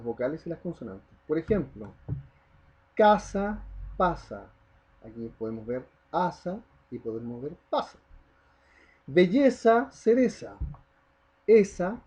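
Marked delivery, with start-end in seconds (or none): 2.9-4.5 "casa", "pasa" with the first A stressed; stress on final rhyme. Shown as a demonstration. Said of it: "donde ponemos la voz con intensidad". 9.1-10.6 "Belleza", "cereza" loud and high, stressed on the middle E; stressed rhyme vowel. Shown as a demonstration. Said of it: "donde ponemos la voz con intensidad".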